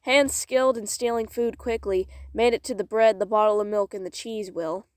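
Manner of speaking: measured, expressive storytelling; story narration. Acted. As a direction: read it aloud like a dramatic tale. Reads story aloud.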